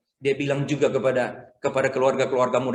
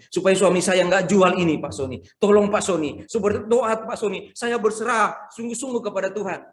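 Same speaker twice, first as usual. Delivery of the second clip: pleading woman; 5 semitones higher than usual. Retold or imitated. Wife begging Pak Soni to pray, mild mock plea. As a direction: mimic a desperate plea for prayer. Congregant begs pastor to pray.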